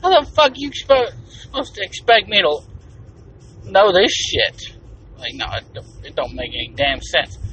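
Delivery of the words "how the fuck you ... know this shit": high, loud, baffled outburst; exasperated disbelief. Retold or imitated. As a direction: blurt it out as if math makes no sense. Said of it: "I'm like".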